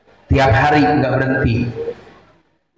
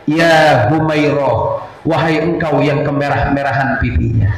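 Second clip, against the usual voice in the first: tender call. Retold or imitated. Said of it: "panggilan yang sangat mesra".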